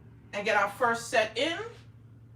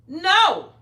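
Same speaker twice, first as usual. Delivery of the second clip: a loud, flat-out no; emphatic no; 5 semitones higher, 9 dB louder than usual. Real, not acted. To viewers who won't help with bills, a loud no. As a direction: slam the door on the idea. Answering her own question, emphatic.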